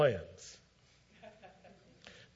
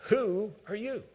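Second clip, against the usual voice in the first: shaken question; 8 semitones higher than usual. Retold or imitated. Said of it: "He says".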